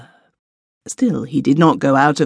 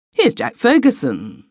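higher, brightened announcement; exclaiming; 9 semitones higher than usual. A narrator's reading. Malcolm exclaiming as he looks out the window. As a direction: call it out on spotting him. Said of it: "exclaimed Malcolm".

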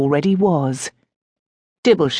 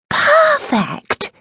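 gleeful cry, far higher; delighted exclaim. A narrator's reading. Godmother delighted by the room plan, high delighted cry. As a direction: squeal with delight. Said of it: "Adelaide exclaimed".

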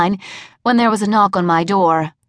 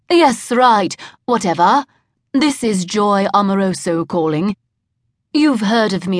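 put-on phony British accent. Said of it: "a decidedly phony British accent".

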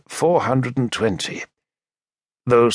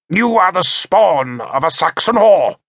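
higher, louder, scornful sneer; contemptuous insult; 7 semitones higher, 4 dB louder than usual. A narrator's reading. Bishop insults the narrator.

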